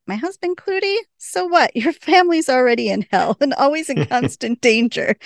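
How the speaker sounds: high-pitched mock tirade; Beth. Host imitates Beth going off half cocked at Waverly, ranting. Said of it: "going off half cocked".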